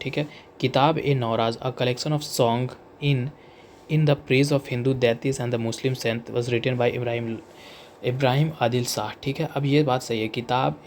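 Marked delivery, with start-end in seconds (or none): 0.6-9.1 slow, deliberate reading of an exam question; reading the question aloud. Acted. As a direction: read each word out slowly for the class. Reads question slowly. (प्रश्न को धीरे-धीरे पढ़कर सुनाना)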